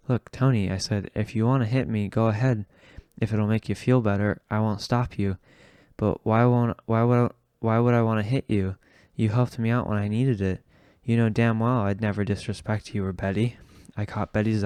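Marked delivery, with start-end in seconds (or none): 0.1-0.7 a loud, pitched-up plea; raised plea. Acted. Narrator pleads with drunk Tony, loud. 1.1-13.6 louder earnest pleading; raised earnest plea. Acted. Narrator begs Tony not to fight, loud and earnest.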